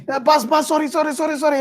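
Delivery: high pleading sorry; crying maid. Acted. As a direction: beg the boss between blows. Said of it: "she's crying".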